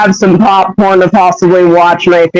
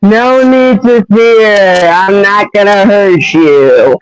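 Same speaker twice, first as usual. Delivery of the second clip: reassuring hedgehog; slower than usual. Acted. Hedgehog on the floor to frightened human, reassuring. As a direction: draw out the soothing words in a lightly acted voice.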